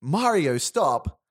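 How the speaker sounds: Luigi calling out. Acted. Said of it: "you hear Luigi's voice going".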